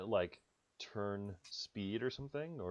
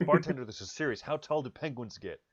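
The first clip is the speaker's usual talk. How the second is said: louder and higher, hammed-up urgency; mock desperate; 4 semitones higher, 5 dB louder than usual. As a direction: beg the bartender, half-joking panic. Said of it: "He looks frantic".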